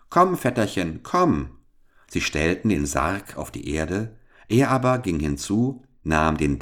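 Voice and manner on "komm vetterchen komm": higher, beckoning call to the dead cousin. A narrator's reading. Boy beckons the dead cousin in the coffin, calling out. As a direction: call him over with a wave. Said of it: "winkte mit dem Finger und rief".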